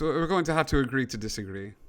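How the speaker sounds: hint of a British gentleman, brisk; quick line in a light British accent. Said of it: "pretty distinct British accent".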